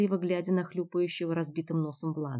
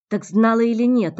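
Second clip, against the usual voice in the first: rough demand; 5 semitones higher, 12 dB louder than usual. Acted. Andrey grabs her roughly.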